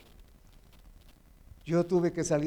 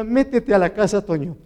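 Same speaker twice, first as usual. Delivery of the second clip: loud, high retold order; authoritative woman; 3 semitones higher, 8 dB louder than usual. Woman ordering Toño indoors, authoritative and loud. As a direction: order him firmly, dropping on the name. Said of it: "una mujer con autoridad".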